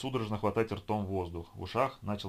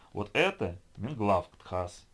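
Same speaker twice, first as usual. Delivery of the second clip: slow gibberish; much slower than usual. Acted. Gibberish in a made-up tongue.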